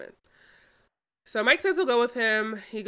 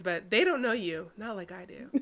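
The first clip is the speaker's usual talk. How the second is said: creepy stalker; 4 dB quieter than usual. Acted. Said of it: "he's pulling a Joe Goldberg".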